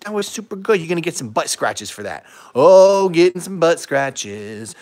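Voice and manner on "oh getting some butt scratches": cooing at the dog. Real, not acted. Rewarding dog with scratches.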